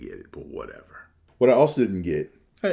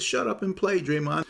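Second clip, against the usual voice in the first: higher mock voice of the radio host; mocking Russo's jab; 11 semitones higher than usual. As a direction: sneer it like a talk radio host. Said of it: "But he said".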